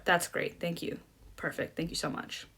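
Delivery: soft polite thanks. Shown as a demonstration. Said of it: "you should always end by saying".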